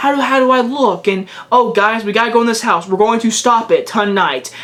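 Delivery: mocking, stiff, script-reading style of delivery. Reviewing a movie and mocking how the old woman delivers lines: imitating an actress's line delivery. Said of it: "She talks like this".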